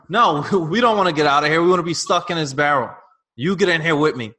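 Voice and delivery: crabs refusing escape. Acted. Crabs in a barrel dragging others back, mock-defiant.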